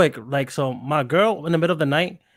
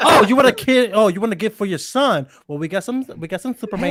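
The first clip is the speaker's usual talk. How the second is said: eager salesman voice, pitched up; mock store clerk; 5 semitones higher than usual. Friend playing a pushy sex shop clerk, eager sales pitch. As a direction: hawk the merchandise like a pushy clerk.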